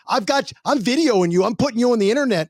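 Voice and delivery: fast, whiny protester mimicry. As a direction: whine it like a protester. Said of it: "It just sounds so whiny".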